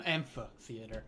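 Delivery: slow "amphitheater" with an f sound before the th; corrective pronunciation. Shown as a demonstration. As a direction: say "amphitheater" as AM-fuh-theater, drawn out. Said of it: "but it's amphitheater".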